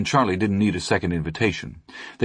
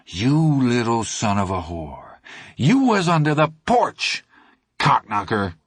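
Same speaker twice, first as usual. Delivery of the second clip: a touch of judgment-day fury; accusing snarl; 3 semitones higher than usual. Acted. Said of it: "cried in a terrible, accusing".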